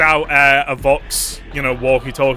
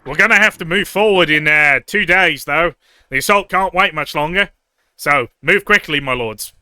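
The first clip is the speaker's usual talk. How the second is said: raised, louder officer's briefing; urgent lieutenant; 3 semitones higher, 4 dB louder than usual. Acted. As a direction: press your superiors to move, respectfully. Game master voices the lieutenant.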